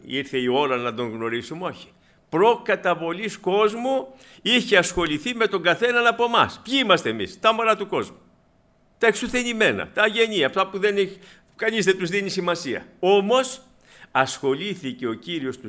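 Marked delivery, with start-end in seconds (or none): 2.3-13.6 high, loud preaching climax; fervent preaching. Real, not acted. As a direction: proclaim it to the hall with fire. Preaching climbs to full force.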